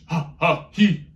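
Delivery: loud ha ha he; punched syllables. Shown as a demonstration. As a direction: pop each syllable. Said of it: "show you what to do".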